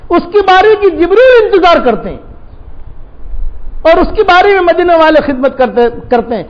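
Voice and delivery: father rebuking his daughter; scolding. Retold or imitated. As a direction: scold her like a stern father.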